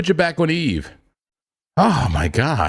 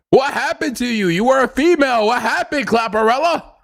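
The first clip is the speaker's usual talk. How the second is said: high-pitched, melodramatic pleading; mock distress; 11 semitones higher than usual. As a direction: plead as if a loved one changed. Mock grief over changed AI voice.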